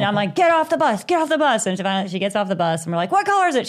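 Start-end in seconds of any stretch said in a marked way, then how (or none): 0.3-1.7 high, urgent mock command; retold freak-out. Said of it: "It's like this whole freak out". 3.1-3.7 high, frantic questioning; retold freak-out. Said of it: "It's like this whole freak out".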